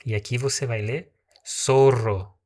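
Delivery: "zorro" said with an S and a rolled R; Spanish S for Z. Shown as a demonstration. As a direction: say "zorro" as "sorro" with a trilled R. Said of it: "Nós falamos zorro". ("zorro" com som de S e R vibrante)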